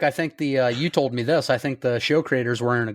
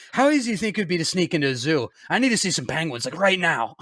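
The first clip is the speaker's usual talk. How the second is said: put-on lightly slurred drunk guy; a hint of a tipsy man. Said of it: "you have a really good fake drunk guy voice".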